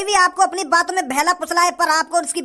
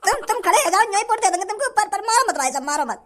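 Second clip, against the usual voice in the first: stammering, whimpering plea; panicked pleading; 3 semitones higher than usual. Acted. Beaten villager offering Kalia his vote, panicked pleading. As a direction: beg frantically for mercy.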